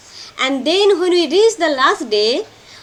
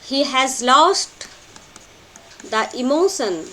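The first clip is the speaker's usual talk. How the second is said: slow and spaced for note-taking; slow dictation. Shown as a demonstration. Teacher slowly dictating a note to students. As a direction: spell it out slowly so students can write it. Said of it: "Take these notes".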